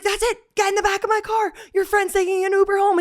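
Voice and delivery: high stern cop order; high mock cop. Cop orders friend to back seat, high mock order. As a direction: order her into the car. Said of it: "he was like".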